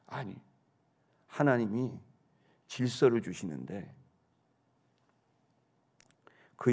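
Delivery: lightly voiced mother, low and measured; calm admonishment. Mother explains God's order to her son, calmly admonishing.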